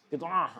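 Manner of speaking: soft "bid'ah" with the 'ain caught in the throat; mock choked 'ain. Preacher teases the objector, "bid'ah" as if choking on the 'ain. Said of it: "Ente itu tersedak ain".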